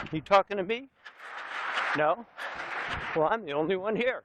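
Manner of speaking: a hint of De Niro tough guy; lightly voiced movie tough guy; Taxi Driver quote. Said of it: "Taxi driver".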